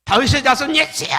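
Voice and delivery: loud, high, strained cry for help; desperate cry. Acted. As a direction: call out across the crowd with all you have. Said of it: "소리를 질렀어요". (군중 너머 예수를 부르는 맹인의 절박한 외침)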